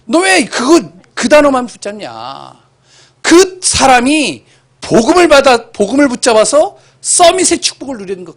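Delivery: fervent father's plea; impassioned exhortation. Retold or imitated. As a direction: drive the point home to the child. Father preaching to child.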